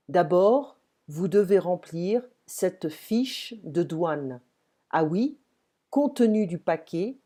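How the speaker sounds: slow, careful French for learners; slow dialogue reading. Shown as a demonstration. Teacher reads a post office dialogue to learners, slowly and clearly. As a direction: read each role out slowly and clearly.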